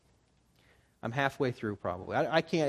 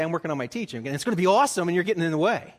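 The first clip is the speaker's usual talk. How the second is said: louder, puffed-up boast about his work; mock self-important boast; 3 semitones higher, 7 dB louder, faster than usual. Telling the church what he wanted to say to his wife, puffed up. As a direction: brag like he's too important to bother. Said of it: "I wanted to say".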